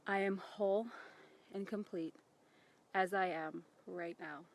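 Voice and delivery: quiet, paced affirmation; soft affirmation. Shown as a demonstration. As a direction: say it softly to yourself. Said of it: "mentally say this to yourself".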